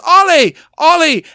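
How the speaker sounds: high, loud imitated yell; Nicole Kidman. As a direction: holler the name like a mother calling her son. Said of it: "She yells".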